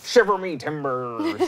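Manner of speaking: slow, silly pirate voice; Muppet pirate voice. Pretend. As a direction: ham up a cartoon pirate. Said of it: "Sound like a Muppet when you do a pirate voice".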